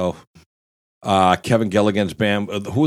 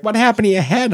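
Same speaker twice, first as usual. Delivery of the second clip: surprised question; 13 semitones higher, 4 dB louder than usual. Retold or imitated. Wife's startled question.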